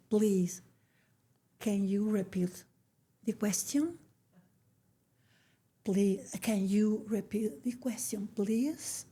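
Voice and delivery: soft, slow plea fading into a whisper; politely begging the officer to repeat, softly; slow and gentle. Retold or imitated. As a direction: ask it tenderly, almost whispering. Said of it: "Así despacito, con amor".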